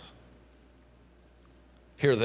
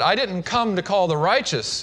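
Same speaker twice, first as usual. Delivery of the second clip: a touch of dry irony, slightly higher; sarcastic; 4 semitones higher than usual. Acted. Jesus answers the self-righteous Pharisees with a hint of sarcasm. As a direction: say it with a knowing wink in the voice. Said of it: "Is there a little bit of sarcasm there?".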